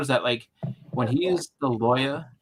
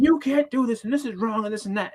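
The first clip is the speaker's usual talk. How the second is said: higher, nagging scolding voice; mock scolding; 9 semitones higher than usual. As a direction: nag like a cross supervisor. Imitating the scolding teacher.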